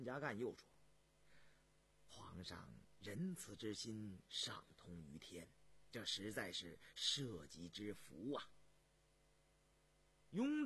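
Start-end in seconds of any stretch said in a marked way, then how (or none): 2.1-8.5 low, slow, soft praise; deep, measured courtier voice; deferential court official. Acted. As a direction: praise the throne with slow reverence.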